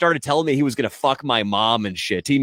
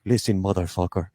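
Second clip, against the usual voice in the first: menacing mock accent, laughing through it; mock threatening accent; 3 semitones higher than usual. Angry scam caller threatening the prankster, mock accent. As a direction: growl the threat like an unknown accent, half laughing. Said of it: "I don't know what accent I'm doing now".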